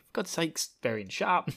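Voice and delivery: mock-scolding in Cockney; weird Cockney accent. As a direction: put on a rough-and-ready East End accent. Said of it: "got this weird accent from".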